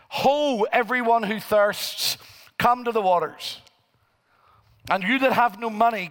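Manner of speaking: proclaimed scripture, opening with a ringing Ho; scripture reading. Acted. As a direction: read Isaiah like a call to the crowd. Reads Isaiah fifty-five aloud.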